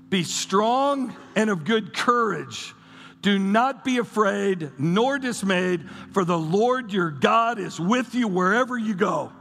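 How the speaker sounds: slow, declaimed Bible verse; scripture reading. Acted. Preacher reads God's command to the congregation, declaimed scripture. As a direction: proclaim the verse in deliberate, measured phrases.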